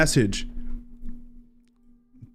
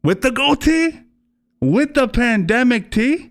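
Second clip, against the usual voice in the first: much higher, slow teasing lilt; sing-song tease; 11 semitones higher, slower than usual. Pretend. Streamer teasing Wes about his goatee, sing-song high. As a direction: croon it like a playful taunt.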